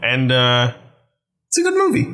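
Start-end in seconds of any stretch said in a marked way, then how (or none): 1.5-2.1 mock repeated verdict. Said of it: "I said that exact same phrase twice".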